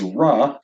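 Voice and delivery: ra with an English R, as in race. Shown as a demonstration. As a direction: say ra with the R of radical. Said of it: "as in the English word race".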